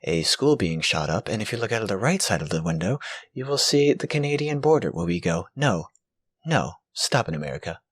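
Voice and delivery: lightly voiced airline captain; low, deadpan pilot announcement; silly clown.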